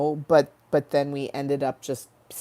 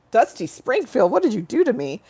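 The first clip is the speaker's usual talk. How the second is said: higher, louder playful complaint; mock-dramatic outcry at the voice; 6 semitones higher, 5 dB louder than usual. Real, not acted.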